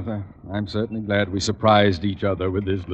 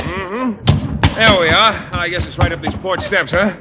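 calling out; 9 semitones higher, 4 dB louder, slower than usual. Acted. Arriving at cottage, calling.

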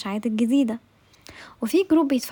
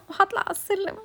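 laughing; 8 semitones higher than usual. Real, not acted. Laughs at having to climb stairs.

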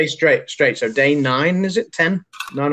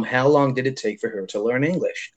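British speaker doing an American accent; 5 dB quieter than usual. Shown as a demonstration. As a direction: read it out as an American would, with "mom". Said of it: "if that was an American".

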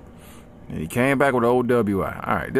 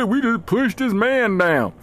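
mocking bully laugh; 9 semitones higher, slower than usual. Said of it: "still be laughing like".

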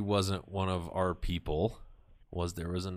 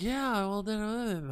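much higher, stalling mock woman's voice; caught-out Heather; 13 semitones higher, much slower than usual. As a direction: play her fumbling for an answer, pitched way up. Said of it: "She's like".

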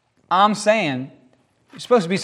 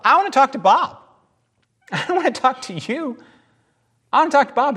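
emphatic demand; 10 semitones higher, faster than usual. Acted. Demanding to talk to Bob, high.

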